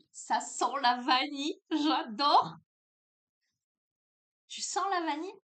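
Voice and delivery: bright, loud delight at the vanilla scent; delighted exclaim. Real, not acted. Delighted sniffing a scented candle.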